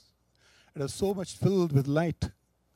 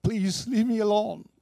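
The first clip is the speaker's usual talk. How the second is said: crying out; 5 semitones higher than usual. A narrator's reading. People in the pit beg to be left alone, crying out. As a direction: plead as one in torment. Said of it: "people crying all around".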